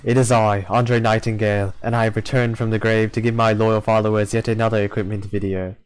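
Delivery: lightly put-on chuuni voice; hammy chuuni greeting to loyal followers; chuuni accent. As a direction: grandiose mock proclamation in a chuuni voice. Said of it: "That was my Chuny accent".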